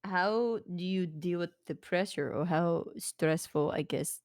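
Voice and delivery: lightly voiced, halting interviewer; hesitant interviewer. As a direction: feel your way through a careful question. Player voices interviewer questioning biker.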